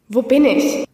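lightly voiced robotic speech, slow; a touch of synthetic voice; toneless computer voice. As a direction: speak like a machine reading words, slowly. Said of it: "nur eine seltsame, tonlose Stimme".

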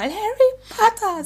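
very high, slow squeaky elf voice; Dobby voice. Acted. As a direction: squeak the name like a house-elf. Imitating Dobby dying.

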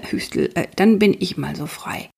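hushed and halting, throat-clearing, half-breathed; a shy man hesitating before he accepts. Acted. Rory shyly accepts Mathilda's offer in a hushed breath. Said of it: "haucht Rory".

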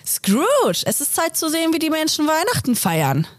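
high, eager exclamation; excited call. A narrator's reading. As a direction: burst out with delight. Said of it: "rief der Geist begeistert aus".

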